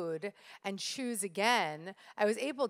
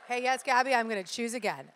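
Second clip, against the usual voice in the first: louder, higher shouted response; audience call-back; 3 semitones higher, 5 dB louder than usual. Real, not acted. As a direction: call it back to the speaker with energy. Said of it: "So can I get a".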